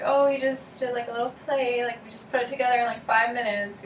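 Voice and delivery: lightly put-on, quick and belittling; dismissive middle-schooler. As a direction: toss it off like a trivial school project. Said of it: "it comes across as something that, like, you did in, like, middle school".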